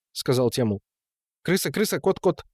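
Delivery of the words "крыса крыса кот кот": high-pitched, repetitive little chant; gleeful simpleton. A narrator's reading. Temul amuses himself while the men argue, gleeful. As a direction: chirp the words in playful pairs. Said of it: "веселился Темул".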